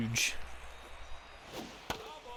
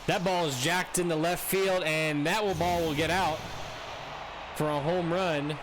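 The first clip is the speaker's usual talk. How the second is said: live play-by-play; 2 semitones higher than usual. Acted. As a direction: call the hit like a broadcaster.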